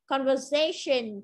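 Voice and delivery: "Conversation" with SA stressed; stress before "shin". Shown as a demonstration. Teacher showing word stress, "Conversation" stressed on SA. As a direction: lean on the syllable before the final shun in "Conversation". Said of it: "trọng âm rơi âm tiết đứng trước cái từ shin".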